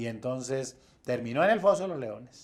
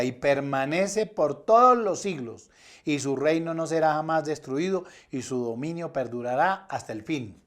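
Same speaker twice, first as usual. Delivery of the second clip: mildly raised, emphatic scripture reading; declaimed decree; 4 dB louder than usual. Acted. Preacher reading the king's decree to the congregation, emphatic proclamation.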